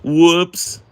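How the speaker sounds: high laugh, then loud "whoops". Real, not acted. Laughing at own confession.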